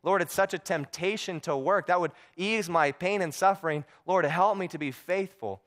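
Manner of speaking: lightly acted desperate praying; pleading prayer. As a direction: imitate a man begging God for strength. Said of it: "he's praying the whole time".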